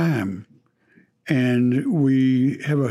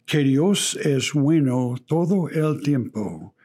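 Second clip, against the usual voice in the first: Spanish spoken with a Texas accent; Texan reading a Spanish saying. Real, not acted. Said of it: "forgive my Texas accent there".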